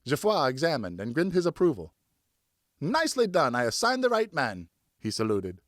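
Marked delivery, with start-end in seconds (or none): 2.8-4.7 mock officer praise.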